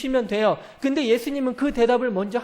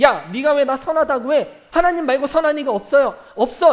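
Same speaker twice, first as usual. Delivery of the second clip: louder, blunt scolding; louder scolding retort; mock rebuke; 4 semitones higher, 6 dB louder than usual. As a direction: snap back at the rich man. Preacher voicing Jesus's rebuke.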